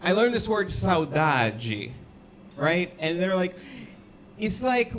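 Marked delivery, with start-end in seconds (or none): 4.4-4.9 put-on hammy, uncertain Portuguese accent; attempted Portuguese accent. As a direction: do a rough Portuguese accent, explaining a word. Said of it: "how to do a Portuguese accent".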